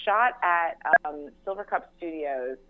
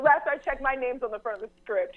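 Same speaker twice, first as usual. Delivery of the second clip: mock sass; 7 semitones higher than usual. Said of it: "Just be like".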